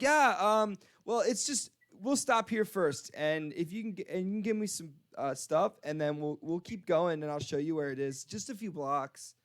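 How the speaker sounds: lightly voiced tipsy wheedling; drunk lady. Drunk woman asking for a liquor store stop, lightly tipsy. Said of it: "like, really drunk".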